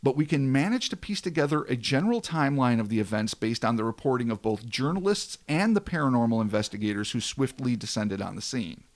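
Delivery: measured storyteller read, falling at sentence ends; dramatic story narration. A narrator's reading. Host tells of a hulking thing watching them, dramatic narration. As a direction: narrate an eerie tale with weight.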